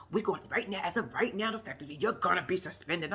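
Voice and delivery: exaggerated sing-song suspension announcement; mocking imitation of boss. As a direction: mimic an over-dramatic manager's pronouncement. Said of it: "the way you said it to him".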